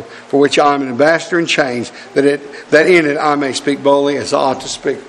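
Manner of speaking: measured, declaiming the Ephesians passage; solemn scripture recital; scripture reading. Acted. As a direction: read it like holy writ to the church. Reads Ephesians scripture aloud.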